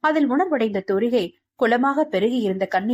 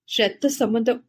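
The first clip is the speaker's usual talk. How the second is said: eerily calm. A narrator's reading. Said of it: "பேர் அமைதியான குரலில்".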